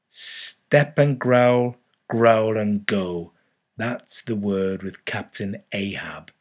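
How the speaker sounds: put-on ranting old sailor prophet. A ragged stranger warning Ishmael about Captain Ahab, ominous and loud. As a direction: preach the captain's dark secrets like a madman.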